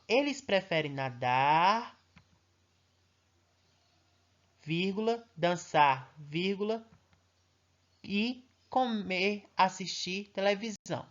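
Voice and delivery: slow list with clear pauses at each comma; teacher showing children where commas fall, pausing. Shown as a demonstration. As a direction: read the list slowly, stopping on every vírgula. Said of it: "quando o tio fala assim".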